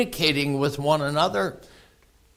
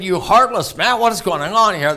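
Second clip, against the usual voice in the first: hammed-up marital confrontation; mock scolding; 3 semitones higher, 5 dB louder than usual. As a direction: play at an indignant wife's reproach. Imagined wife scolds husband in argument.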